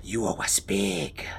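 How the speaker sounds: slow, strange creature voice, mocking; mocking high-pitched creature. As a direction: taunt the kid, drawn out and odd. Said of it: "It says mockingly in this high-pitched tone".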